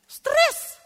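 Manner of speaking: high, loud shriek of stress; stressed outburst. Real, not acted. Preacher mocking her old Christian pressure, a loud high shriek. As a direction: cry out the word as if overwhelmed. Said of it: "ik word helemaal stress".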